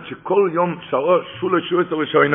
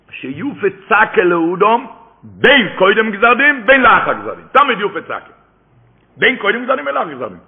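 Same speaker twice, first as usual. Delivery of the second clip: emphatic quoting; 3 semitones higher, 4 dB louder than usual. Real, not acted. Declaiming the quoted source with force.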